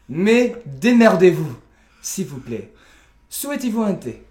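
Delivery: mock-formal courteous welcome; measured, elaborately courteous delivery; over-polite host redo. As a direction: play a lightly exaggerated, ceremonious English host. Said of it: "bon, alors je reprends".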